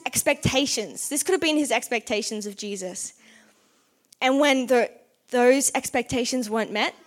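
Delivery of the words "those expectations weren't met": ordinary talk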